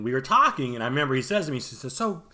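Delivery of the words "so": imitating techie friend. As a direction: do a hint of your techie pal, dropping quieter at the end. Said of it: "he talks like this".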